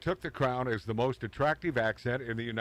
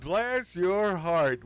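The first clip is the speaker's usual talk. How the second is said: slow, louder drawled Southern blessing; 5 semitones higher, 4 dB louder, much slower than usual. Shown as a demonstration. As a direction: stretch "Bless your heart" out like a sweet Southern lady. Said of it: "which means go F yourself".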